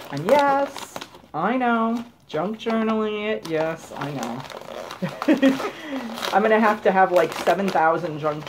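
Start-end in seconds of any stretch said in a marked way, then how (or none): 0.1-6.3 laughing. Real, not acted. Teasing self-mockery.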